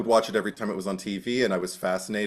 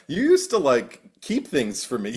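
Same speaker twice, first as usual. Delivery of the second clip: teasing reminder; 4 semitones higher than usual. Retold or imitated. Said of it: "I love reminding her".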